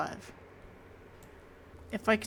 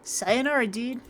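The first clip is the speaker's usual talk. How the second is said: loud, laid-back surfer bro voice; hollering surfer priest greeting; surfer dude priest; 4 semitones higher, 5 dB louder, slower than usual. Acted. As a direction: sell it like a stoked beach dude.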